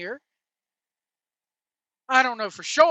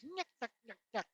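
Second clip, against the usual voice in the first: much softer nyuk nyuk through a laugh; 18 dB quieter, much faster than usual. Retold or imitated. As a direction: chuckle the nyuks under your breath. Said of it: "Why is he doing the Three Stooges?".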